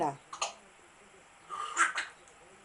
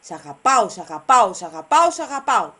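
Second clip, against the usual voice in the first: louder, rising drill of each phrase; drilled repetition; 6 dB louder, faster than usual. Shown as a demonstration. Owner drilling the parrot with a loud rising repeat. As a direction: hammer the phrase in for the bird.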